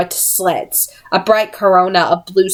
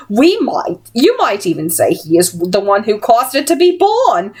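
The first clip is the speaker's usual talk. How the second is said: menacing villainess; 4 semitones higher than usual. Acted. Missus Dark lecturing Will.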